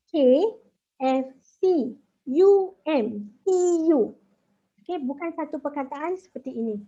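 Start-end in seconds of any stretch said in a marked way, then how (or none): 0.1-4.1 K F C, U M, T U each letter hit separately and louder; letters spelt apart. Shown as a demonstration. Teacher spelling letter abbreviations to contrast with acronyms, letter by letter. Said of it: "cannot pronounce as one word".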